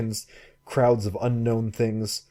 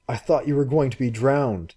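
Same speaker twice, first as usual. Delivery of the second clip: angry; 4 semitones higher than usual. Acted. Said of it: "angry again".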